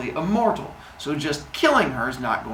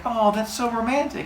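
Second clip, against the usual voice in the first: high, swooning girl imitation; put-on lovestruck delight; Mincinin; 7 semitones higher than usual. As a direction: coo it in a raised mock-girlish voice. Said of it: "And she's like".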